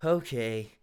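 "Okay" said low and flat, dejected; reluctant downcast okay; depressed. Shown as a demonstration. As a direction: let "Okay" sink, defeated. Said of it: "Dylan's depressed here".

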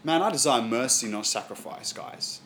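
slow, softening plea that fades to near hush; gentle plea from Jesus. Retold or imitated. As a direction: speak it as a tender appeal to friends. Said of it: "He says".

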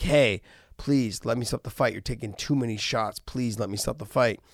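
restrained, earnest plea; passionate pleading. Retold or imitated. Coach begging a hurt fighter to quit, mild pleading. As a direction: plead out of care for the fighter, without shouting. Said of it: "that's a passion that".

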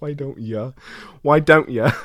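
amateur Cockney impression; Cockney accent. Impressionist trying out endings for a line, Cockney accent. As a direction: play with a loose Cockney accent. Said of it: "He's Cockney".

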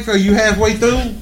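high, soft, slow asking; hopeful retold question. Husband hoping the shopping is half done, high and slow. Acts out his reply to wife.

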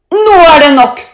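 high, loud outburst; fed-up shout. A narrator's reading. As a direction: yell that you have had enough. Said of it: "roper Thor". (sint, høyt rop)

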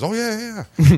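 high squeaky imitation of dad; mock high dad voice; Minnie Mouse dad. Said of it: "My dad talks like Minnie Mouse".

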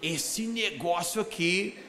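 voz grave e bem lenta; imitando o camarada. Retold or imitated. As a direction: arraste a frase com voz grave. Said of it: "Ele falava". (voz grave e arrastada do rapaz)

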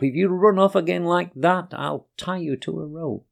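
a touch of a cross owner; upset scolding. Acted. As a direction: tell off the naughty dog, half-stern. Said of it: "though she sounded quite upset".

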